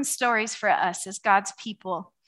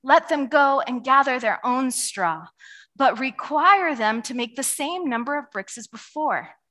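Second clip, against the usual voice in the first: Pharaoh voice; 4 dB louder than usual. Retold or imitated. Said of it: "Then Pharaoh says".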